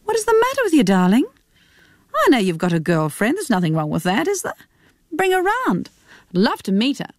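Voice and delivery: a hint of a teasing, coaxing mother; mother coaxing her son to bring his girlfriend, lightly voiced.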